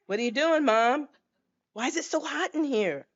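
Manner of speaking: put-on a baby asking Mom what's happening, worried; scared baby voice. Unborn baby asks Mom why it's hot, childlike and alarmed.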